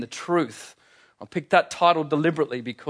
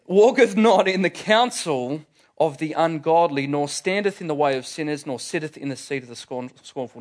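King James reading. Shown as a demonstration. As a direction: intone "walketh" and "standeth" in archaic style. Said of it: "I read this from the King James Version".

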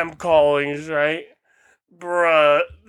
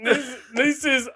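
slow, higher mock South Asian caller; South Asian scammer accent; 6 semitones higher, slower than usual. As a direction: pose as an official in a put-on South Asian accent. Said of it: "motherfucker going".

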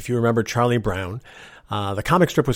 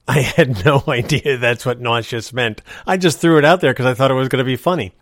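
plain reading voice

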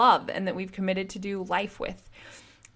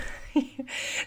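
breathy, amused chuckle; short laugh; 6 semitones higher, 4 dB quieter than usual. Real, not acted. Podcaster amused by her guard act, light chuckle. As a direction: chuckle at your own impression.

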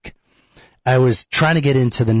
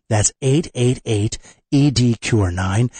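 slow number repeat; slower than usual. Shown as a demonstration. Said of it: "repeating the phone number".

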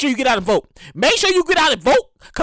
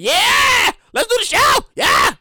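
hyped shout; 7 semitones higher, slower than usual. Retold or imitated. Podcaster acting his Twisted Tea buzz, hyped shouting. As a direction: pump yourself up for the show. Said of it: "I'll be like".

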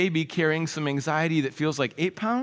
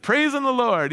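bright, lifted praise, higher and louder; retold joyful reply; 5 semitones higher, 4 dB louder than usual. Quoting the joyful tow truck driver, higher and louder. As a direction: echo the mechanic's happy answer. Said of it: "he said".

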